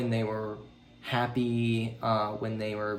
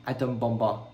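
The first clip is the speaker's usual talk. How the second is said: put-on Japanese accent; 3 dB louder than usual. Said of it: "my pronunciation of terrible Japanese accent".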